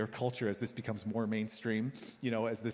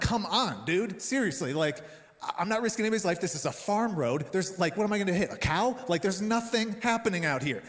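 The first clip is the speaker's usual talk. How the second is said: retold mad rant; 5 semitones higher, 3 dB louder than usual. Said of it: "I'm mad".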